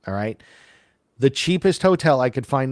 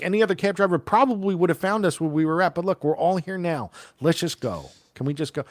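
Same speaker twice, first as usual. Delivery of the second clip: said calmly; 5 semitones higher, faster than usual. Retold or imitated. Teller answers the driver calmly to end the row. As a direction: settle it down evenly. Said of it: "I said it calmly".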